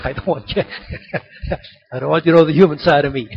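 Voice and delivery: said through a chuckle; amused, breaking into laughter; laughing. Real, not acted. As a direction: laugh while admitting it. Preacher joking about his human side.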